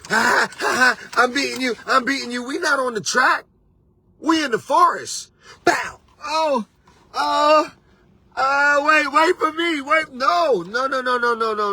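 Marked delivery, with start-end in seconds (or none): 0.1-2.4 higher, taunting "ha ha"; mocking a boastful racer; gloating runner voice. 5.6-11.7 high, whiny "wait for me"; panicked runner left behind, much higher; mock crash and panic. Voicing a runner crashing into tree.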